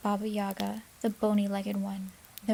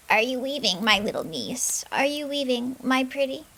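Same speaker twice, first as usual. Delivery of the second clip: higher, louder, sugary witch voice; sweetest voice; 4 semitones higher, 4 dB louder than usual. Acted. Witch calls through the window, falsely sweet. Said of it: "her sweetest voice".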